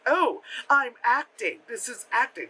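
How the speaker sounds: mock bad acting. Mocking an actress only mimicking acting, stilted delivery. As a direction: announce it like a stilted amateur. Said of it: "she was just mimicking something".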